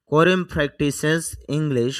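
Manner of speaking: slow model reading. Shown as a demonstration. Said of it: "teacher reads model sentence slowly".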